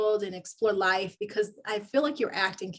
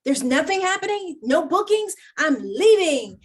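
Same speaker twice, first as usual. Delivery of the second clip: mock exasperation; 8 semitones higher, 6 dB louder than usual.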